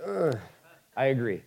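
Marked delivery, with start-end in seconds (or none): 0.0-0.4 disgusted groan. Retold or imitated. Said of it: "You're like".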